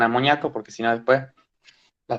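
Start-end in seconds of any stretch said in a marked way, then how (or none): 0.0-0.5 "amoníaco" said as amoniáco, i gliding into stressed A; mispronounced without accented I. Shown as a demonstration. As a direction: say "amoníaco" in four syllables, a-mo-NIA-co. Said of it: "Por favor, no digan amoníaco".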